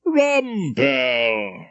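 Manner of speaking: drawn-out hearty welcome; welcoming greeting. A narrator's reading. Head of chambers greets Rumpole at dinner, drawn-out welcoming call. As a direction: greet him slowly, arms open. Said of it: "with a welcoming".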